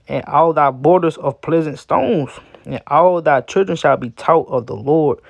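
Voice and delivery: slow, solemn reading of the verses; slow scripture reading. Acted. Preacher reading Isaiah to his people, slow and solemn. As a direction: let each line of scripture land slowly.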